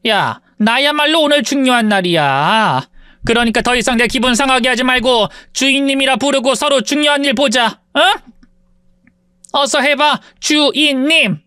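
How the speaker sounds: lightly voiced sneering rich woman; haughty rich woman. Rich woman taunts her former maid, mildly sneering. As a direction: look down on her with a lazy sneer.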